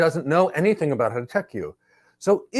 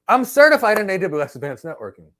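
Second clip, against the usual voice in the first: mock candidate voice; 6 semitones higher, 7 dB louder than usual. Interviewer quizzes certified candidate.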